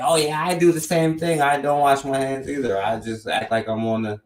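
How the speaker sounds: host mocks white girls admitting they skip handwashing, high-pitched imitation; mimicked white girls. Host retelling white girls' confession, mock girlish voice. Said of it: "it's little white girls laughing their hearts out".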